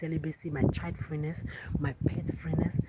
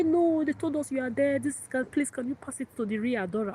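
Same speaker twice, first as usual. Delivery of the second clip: high, loud imitation of a pleading caller; insistent caller; 9 semitones higher, 4 dB louder than usual. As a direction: play a caller who refuses to believe you. Voicing insistent caller on phone.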